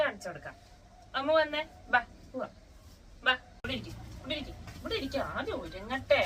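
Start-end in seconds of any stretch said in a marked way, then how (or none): 1.2-6.2 higher, louder coaxing call; coaxing pet call. Real, not acted. Owner coaxes Ammu to come sit, high coaxing call. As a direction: coax the pet over in a high voice.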